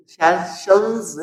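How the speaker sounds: सेशंस drawn out very slowly, the final z sounded; slow model word. Shown as a demonstration. Teacher drawing out सेशंस slowly for students. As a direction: stretch सेशंस syllable by syllable. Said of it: "नहीं, वो सेशंस जज है".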